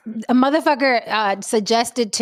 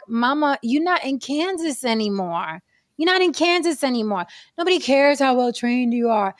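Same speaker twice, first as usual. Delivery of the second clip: mock stern. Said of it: "slap yourself and be like".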